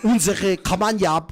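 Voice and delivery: mock heavy German accent, drawn out toward the end; thick German-accented impression, played for laughs; exaggerated German accent of a government minister; Klaus Dirks. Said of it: "exactly how he sounded".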